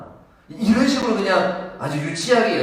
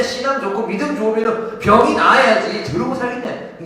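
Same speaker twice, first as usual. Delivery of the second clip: loud, higher impassioned preaching; full-force preaching; 7 semitones higher, 7 dB louder than usual. Acted. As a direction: drive the point home to the congregation. 격앙된 설교. (목소리를 높여 열정적으로 설교)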